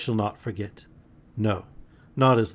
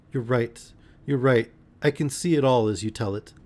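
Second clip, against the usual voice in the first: choked voice; 2 semitones higher than usual. Acted. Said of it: "in a choked voice she said".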